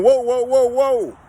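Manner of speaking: calling a halt the way the oiler did; imitating the oiler's warning. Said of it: "And he's saying".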